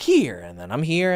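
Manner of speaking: here said with a rise, pitch climbing; rising pitch demo. Shown as a demonstration. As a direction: lift the tune up on here. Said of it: "how I'm talking now".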